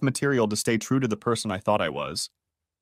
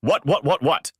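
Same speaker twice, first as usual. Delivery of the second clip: hissed disbelief; 4 semitones higher, 3 dB louder than usual. A narrator's reading. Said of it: "and then she hissed".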